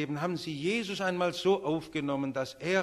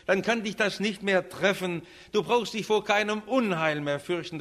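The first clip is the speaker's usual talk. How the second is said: raised, insistent assurance; emphatic preaching; 6 semitones higher, 4 dB louder than usual. Real, not acted. Preacher promising God's protection to the listener, emphatic. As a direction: press the promise home to the congregation.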